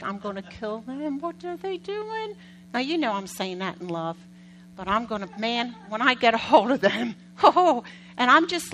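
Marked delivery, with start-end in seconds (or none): 0.0-2.3 inner exasperation. Retold or imitated. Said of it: "Inside, I'm like".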